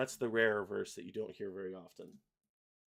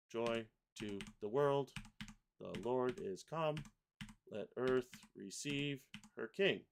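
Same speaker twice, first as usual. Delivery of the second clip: measured lyric dictation; syllable-by-syllable reading. Shown as a demonstration. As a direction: read each word as it gets pasted, with gaps. Reads lyrics while pasting syllables.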